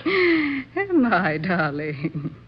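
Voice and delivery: amused and scornful, teasing him; wife laughing off her husband's insult; mocking laugh.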